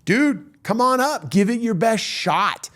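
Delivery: high, loud mock challenge; scary voice yelling back. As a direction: dare him down from the balcony, imitating a scary heckler. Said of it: "the scary voice yells back down".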